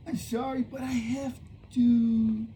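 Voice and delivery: halting, lightly voiced creature; a hint of a beast finding words; creature learning speech. Creature apologises to the rancher, lightly voiced and halting. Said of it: "as if it was learning how to talk".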